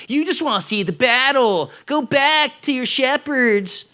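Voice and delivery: lightly voiced whiny spoiled brat, slow at the end; a hint of a pouting spoiled kid. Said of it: "like, spoiled brat voice".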